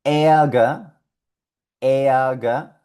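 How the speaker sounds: Ärger as eaga, R vocalized; German Ärger. Shown as a demonstration. Teacher modeling German Ärger. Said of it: "ejemplo de palabra".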